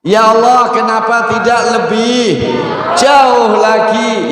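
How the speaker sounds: high, slow pleading cry; first cry again. Retold or imitated. Preacher recalling the first cry for the congregation, slow and high. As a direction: draw out the plea. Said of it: "Satu bengok sing pertama napa".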